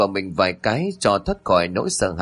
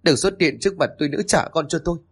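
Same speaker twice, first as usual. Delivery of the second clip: higher-pitched angry rebuke; angry cursing; 5 semitones higher, faster than usual. A narrator's reading. Grieving wife pushes husband away, cursing him angrily. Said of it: "hất hắn ra rồi chửi".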